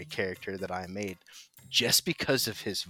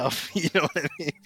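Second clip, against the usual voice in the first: laughing; 8 semitones higher, 5 dB louder, much faster than usual. Real, not acted. Laughing at own slip.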